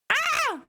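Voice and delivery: short high-pitched yelp; startled yelp. Real, not acted. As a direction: yelp in sudden alarm, high. Startled mid-game.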